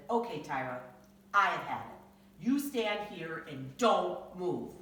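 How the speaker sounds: slow, firm, loud-ish warning; fed-up father. Acted. Father fed up with Tyra, slow firm warning. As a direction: draw the line with a kid.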